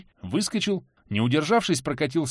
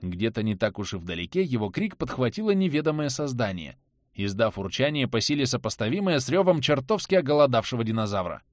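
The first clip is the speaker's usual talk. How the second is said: usual speaking voice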